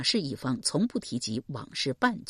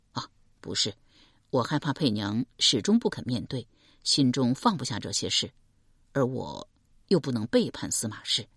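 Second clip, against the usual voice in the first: a lightly lowered calm man; man's voice Deng Yi; 5 semitones lower than usual. Acted. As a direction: speak as a steady young man.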